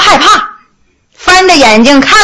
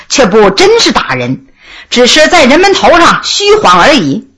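plain reading voice

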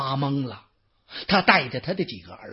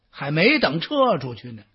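ordinary delivery

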